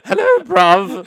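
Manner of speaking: slow, loud, high London accent; London bruv. Shown as a demonstration. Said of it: "Hello, brother".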